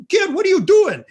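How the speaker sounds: high, loud shocked clerk; shocked yell. Retold or imitated. Clerk yells at kid.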